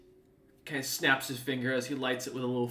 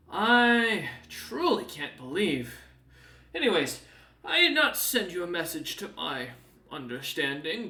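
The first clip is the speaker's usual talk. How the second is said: a hint of a haughty, chatty demon; lightly voiced Snowbeard; 3 semitones higher, 4 dB louder than usual. Demon tells young Eider about his cousin, lightly voiced. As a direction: gossip grandly about the cousin. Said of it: "as he looks at you and goes".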